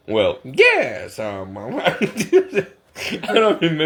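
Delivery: a clumsy, hammed-up try at a British Cockney accent, laughing; slow, fumbling stab at Cockney for an audition that has no idea what Cockney is; bad Cockney attempt. Auditioning actor fumbling a Cockney accent, laughing at himself. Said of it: "it was ridiculous".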